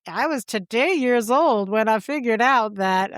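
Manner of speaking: lightly voiced online meme; mock internet catchphrase. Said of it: "those things online where you're like".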